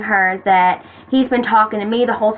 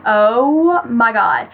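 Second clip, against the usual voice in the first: long, drawn-out dismay; retold freak-out; much slower than usual. Reading the leaked screenshot, mock freaking out. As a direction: stretch it out slowly as dread sinks in. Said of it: "I started freaking out".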